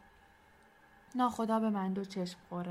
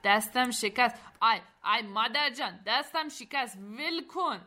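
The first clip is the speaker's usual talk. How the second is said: high, wailing cries of pain; pained yelling; 4 semitones higher, 6 dB louder than usual. Acted. Barsam's hand is crushed in a handshake, yelling in pain. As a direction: start loud, climb higher, begging for release.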